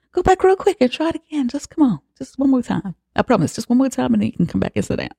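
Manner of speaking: high, whiny mock pleading; mocking Bjorn. Bjorn coaxing Agnes back to the floor, high mock whine. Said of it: "'Cause, of course, Bjorn is a bitch".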